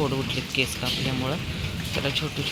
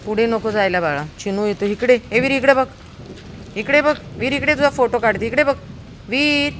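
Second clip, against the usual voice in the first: high loud calls to the dog; calling the dog; 8 semitones higher, 4 dB louder than usual. Real, not acted. Owner calling her dog to pose for a photo, high and loud. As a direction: coax him to look at the camera, high and loud.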